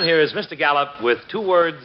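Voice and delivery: brisk, polished radio commercial pitch; old-time radio announcer; ad read. Acted. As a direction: sell it to the listener with confidence. Announcer reads cigarette ad.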